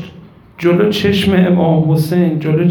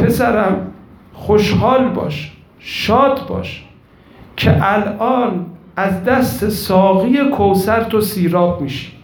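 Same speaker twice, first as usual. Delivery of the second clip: mother calling after son; 2 semitones higher than usual. Acted. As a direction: sing it out like a grieving mother blessing her son. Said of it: "مادره از پشت سر فریاد زد".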